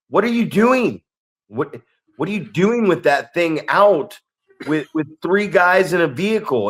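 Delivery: a coach losing patience at the wheel; exasperated yell. Retold or imitated. Driver confronting kid in truck.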